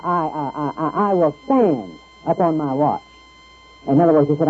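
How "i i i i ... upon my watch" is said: stuttering. Shown as a demonstration. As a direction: stutter on I, then say it. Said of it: "there is sort of a stuttering there".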